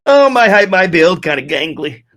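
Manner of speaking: hammed-up lament, starting high and loud; Jim Carrey impression. Streamer playing Jim Carrey in Liar Liar, hammed-up lament. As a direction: start big and high, subside to normal pitch. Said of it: "the Jim Carrey impersonation".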